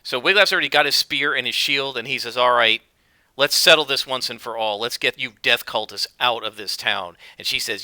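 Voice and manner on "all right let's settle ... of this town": loud, bold warrior call; rally to the fight, loud; heroic challenge. Acted. Wiglaf squaring up to the cultists, loud and bold.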